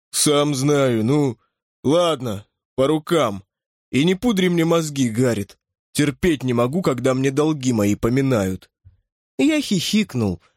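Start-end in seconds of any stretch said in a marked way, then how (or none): 0.1-8.7 lightly voiced grumbling bruiser; gruff big man. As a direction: grumble it like a hulking old pal. Tarp's grumbling dialogue voice.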